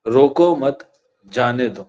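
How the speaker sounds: روکو مت as one unit, short pause, then جانے دو; group روکو مت together, break, let جانے دو fall; pause after مت. Shown as a demonstration. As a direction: comma read after مت. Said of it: "میں نے یہاں پہ ایک کوما لگا دیا".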